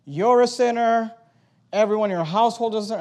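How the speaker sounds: accusing preacher jabbing "You're a sinner" loud and high. Shown as a demonstration. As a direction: blame the listener directly. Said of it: "That's not what I said".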